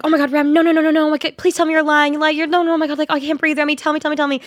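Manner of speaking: high, frantic pleading in rapid repeats; panicked friend. Retold or imitated. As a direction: imitate a friend begging in a panic. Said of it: "having a panic attack".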